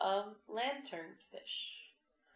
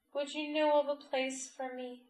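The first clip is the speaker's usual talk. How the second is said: little crab voice; 7 semitones higher, 3 dB louder than usual. A narrator's reading.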